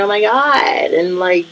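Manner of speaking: mock voice pitched well up; high, put-on mimicry of another woman; imitating her talk. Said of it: "she talks like that".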